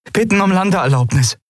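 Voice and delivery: eager call asking for landing clearance. A narrator's reading. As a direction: call it across to the station. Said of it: "rief Endriel".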